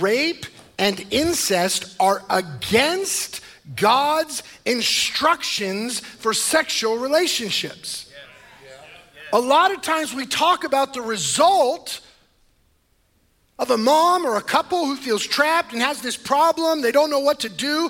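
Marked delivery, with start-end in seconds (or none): 0.0-8.1 slow, carefully paced, deliberate, weighted delivery. Speaker reading a point from his notes to listeners, said slowly. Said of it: "say this slowly".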